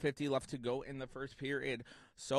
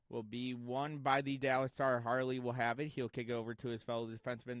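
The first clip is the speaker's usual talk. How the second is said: play-by-play; 3 semitones higher than usual. Acted. Live hockey play-by-play.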